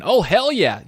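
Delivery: loud, self-mocking replay of the cheer; nerdy excitement repeated. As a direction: echo your own cheer, poking fun at it. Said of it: "I sounded like a real nerd there saying".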